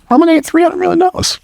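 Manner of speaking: very high, fast squeaky disbelief; little squeaky voice. Retold or imitated. Speaker voicing his self-sabotaging brain, fast squeaky high voice. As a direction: squeak it out like a panicking inner voice. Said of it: "That's my first little squeaky voice".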